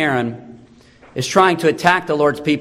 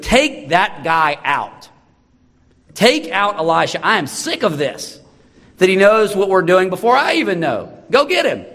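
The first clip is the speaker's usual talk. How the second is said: frustrated king; 5 semitones higher than usual. Acted. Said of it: "And he gets frustrated".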